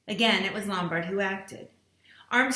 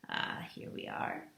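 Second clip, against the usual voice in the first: satisfied exclamation; 10 dB quieter than usual. A narrator's reading. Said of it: "uttered an exclamation of satisfaction".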